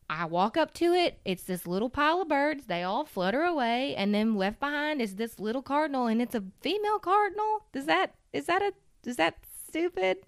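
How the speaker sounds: imitating an emotional friend, pitch climbing into questions; retold emotional telling. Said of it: "I'm really emotional right now".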